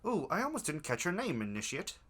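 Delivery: cultist voice. Acted. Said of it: "you switch cultist voices".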